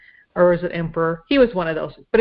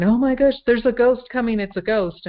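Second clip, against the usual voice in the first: mildly alarmed, higher-pitched retelling; mock freak-out; 5 semitones higher than usual. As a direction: lightly imitate frightened men crying out. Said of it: "started freaking out, going".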